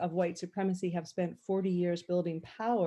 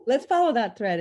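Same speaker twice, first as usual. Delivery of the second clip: firmer repeat; 4 semitones higher, 7 dB louder than usual. Real, not acted. Moderator repeats to take floor.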